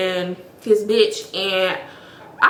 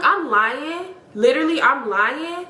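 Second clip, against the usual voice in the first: higher, rising incredulous questions; retold disbelief; 5 semitones higher than usual. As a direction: challenge the accusation as if you can't believe it. Retold reaction to being called liar.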